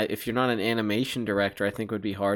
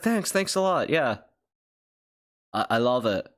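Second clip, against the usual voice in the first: hammed-up celebrity modesty, pitched up; Tom Hanks impression; 3 semitones higher than usual. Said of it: "he's like".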